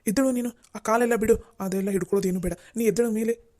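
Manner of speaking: startled, pulling her up off his feet; husband, shocked his wife is at his feet, urgently tells her to rise; alarmed plea to get up. Acted.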